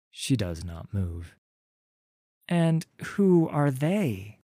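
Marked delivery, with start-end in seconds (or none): 2.5-4.4 put-on higher, cautious girl's question; wary young Wreath. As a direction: ask warily, keeping distance. Wreath asks warily.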